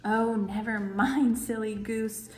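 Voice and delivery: a touch of grumpy groaning; groaned. Acted. The groundhog groans at Silly Goose, slow. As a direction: groan it out slowly. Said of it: "Gregory groaned".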